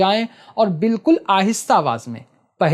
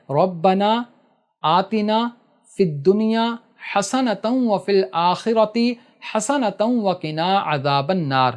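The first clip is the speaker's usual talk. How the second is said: slow dua recitation; slower than usual. Shown as a demonstration. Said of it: "ایک مرتبہ یہ دعا پڑھنا ہے".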